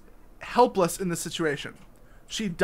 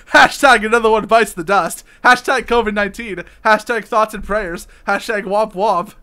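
louder mocking read of a tweet; 3 semitones higher, 8 dB louder than usual. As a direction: sneer the hashtags out in mock voice. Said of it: "let's see what Tom Lakey has to say".

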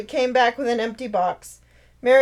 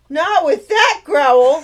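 challenging; 5 semitones higher, 9 dB louder, slower than usual. Acted. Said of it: "Hope challenged".

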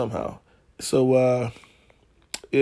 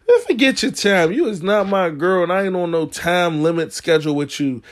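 angry retort; 4 semitones higher than usual. Retold or imitated. Retold angry reply to girl.

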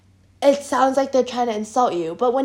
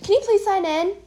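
lightly imitated teacher request, quickening at the end; a hint of a curt teacher; exact teacher tone. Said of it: "she says it in this exact tone".

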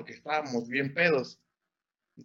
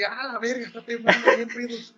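imitated panic; 7 semitones higher, 4 dB louder than usual. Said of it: "Y otros así".

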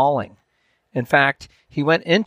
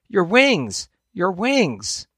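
urgent call; 7 semitones higher, much slower than usual. A narrator's reading. Father calling to falling chick.

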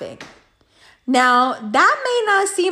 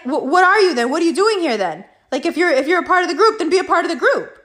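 retold challenge; 4 semitones higher, faster than usual. Friend keeps challenging the man.

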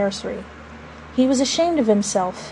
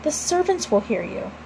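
softened, hushed plea; entreating; 4 semitones higher, 6 dB quieter than usual. A narrator's reading. Wife fears the servants will hear, entreating softly. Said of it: "Missus Darling entreated him".

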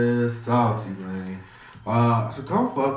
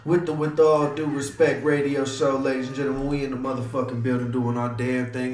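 radio DJ hype intro. Acted. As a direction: pump up the crowd like a live DJ. Opens the radio show.

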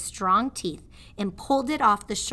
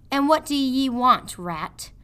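gruff prisoner; 5 semitones higher, 5 dB louder than usual. Acted. Prisoner challenges rat.

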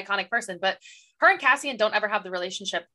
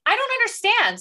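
mock bafflement; 11 semitones higher, 3 dB louder than usual. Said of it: "And I'm like".

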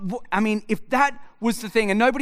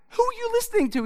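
mock stern father; 13 semitones higher, faster than usual. Father scolding son in retold quote.

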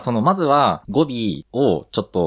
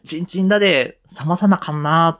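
high, lilting Nagoya accent, played up; ふざけた名古屋弁; mock Nagoya dialect; 9 semitones higher than usual. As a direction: answer in hammed-up Nagoya speech. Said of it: "とか言って".

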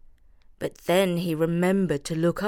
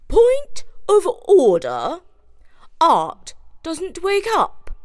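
high, slow, insistent; called out; 10 semitones higher, 7 dB louder, slower than usual. A narrator's reading. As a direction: call out over them. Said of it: "called out Judith".

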